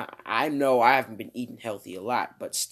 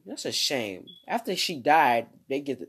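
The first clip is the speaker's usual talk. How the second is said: ordinary delivery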